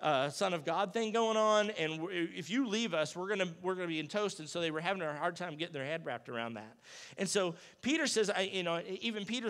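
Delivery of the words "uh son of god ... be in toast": alarmed disciples. Retold or imitated. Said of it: "the disciples are like".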